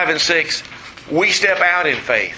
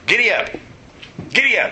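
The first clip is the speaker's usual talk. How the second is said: rising higher giddy up calls to a horse; mock giddy up; 7 semitones higher, faster than usual. Pastor urging his new horse to go, mock call. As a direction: urge the horse on, hammed up. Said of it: "he goes".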